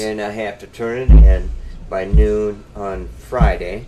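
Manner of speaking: talking while thumping the table; desk thump. Real, not acted. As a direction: knocks on the desk mid-sentence. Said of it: "Quit hitting the table 'cause it makes a noise on the mic".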